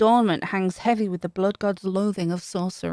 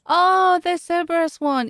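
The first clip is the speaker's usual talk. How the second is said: excited gasp; 6 semitones higher, 6 dB louder than usual. Real, not acted. Gasps at three-headed hound.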